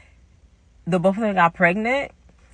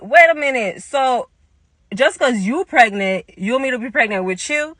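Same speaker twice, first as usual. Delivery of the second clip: higher-pitched, mildly indignant challenge; retold upset; 3 semitones higher than usual. Upset teller to pregnant friend, retold indignant challenge. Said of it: "I was so upset".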